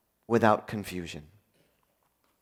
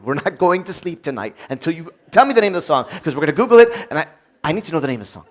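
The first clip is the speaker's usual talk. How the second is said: annoyed insistence; 4 dB louder, much faster than usual. Retold or imitated. Annoyed demand at night.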